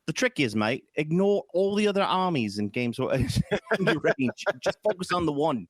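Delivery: put-on a loose, half-placed Australian or New Zealand accent; lightly put-on Aussie mate voice; vague Aussie accent. Games Workshop giving advice, in a mild Aussie accent. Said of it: "I don't know what accent that was".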